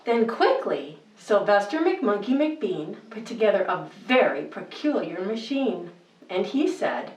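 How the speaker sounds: put-on lilting read-aloud rhythm for children; bedtime story reading. Host reading Seuss to kids at bedtime, lilting storybook voice. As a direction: read it like a cozy bedtime book.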